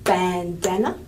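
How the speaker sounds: Bandana with "Ban" and "dan" both strong; two strong syllables. Shown as a demonstration. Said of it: "has two strong syllables".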